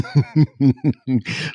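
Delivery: real chuckle mid-read; laughing. Real, not acted. Cracks up while reading comments.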